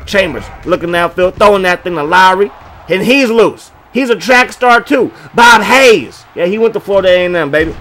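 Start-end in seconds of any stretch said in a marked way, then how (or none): 1.4-6.2 louder, higher as he breaks loose; building excitement on the catch; excited call. Real, not acted. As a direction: hype the receiver running free. Long pass, receiver loose.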